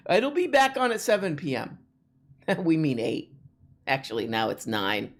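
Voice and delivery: lightly voiced automated update; mock cheery text message. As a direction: read it like a breezy automated notice. Mimics upbeat text message.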